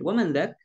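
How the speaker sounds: dzak said with the lam left out of dzalik; dropped lam. Shown as a demonstration. Teacher showing the lam is not pronounced. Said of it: "lamnya tidak dibaca".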